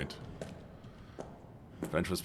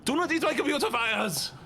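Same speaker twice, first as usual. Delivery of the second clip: mock scolding; 14 semitones higher than usual. Scolding a chat rat.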